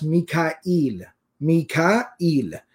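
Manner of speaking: Mikail as mee-kaa-EEL, long final ee; familiar pronunciation. Shown as a demonstration. Teacher showing the Farsi and Urdu form, Mikail as mee-kaa-EEL. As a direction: draw Mikail out in three syllables ending eel. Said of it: "they pronounce it as".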